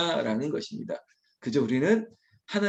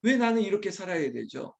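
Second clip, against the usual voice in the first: higher-pitched mock grumble to God; complaining; 4 semitones higher than usual. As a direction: protest your lot in life. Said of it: "불평일 때가 참 많습니다".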